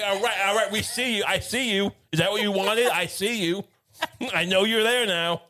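mildly put-upon dog owner; mock exasperated acknowledgment. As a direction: humour a needy barking dog, a touch sarcastic. Mock owner answering a barking dog.

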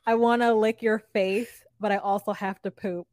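mocking Statler. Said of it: "scenes of her be like".

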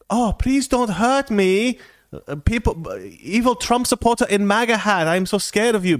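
high, pleading put-on Asian accent; hammed-up frightened victim with an imitated Asian accent; mock Asian accent. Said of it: "I do the Asian accent".

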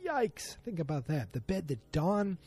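squeaky, very high "Yikes"; squeamish yikes. Real, not acted. Speaker reacts to bed scene.

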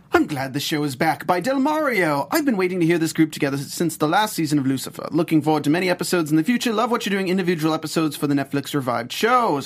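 lightly put-on listener voice; Del Mario. Co-host reading a listener's iTunes review, lightly voiced. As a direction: read the fan review lightly in character. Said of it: "That's Del Mario's voice".

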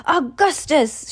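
slow, high call of the name; mild shout. A narrator's reading. Mother shouts to her son at the river, slow mild shout. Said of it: "shouted Missus Gloop".

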